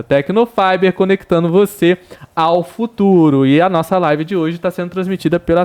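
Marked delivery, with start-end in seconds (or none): 0.0-3.5 upbeat radio ad voice; ad read. Acted. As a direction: sell it like a radio spot. Leitura de anúncio ao vivo. (locução de anúncio animada)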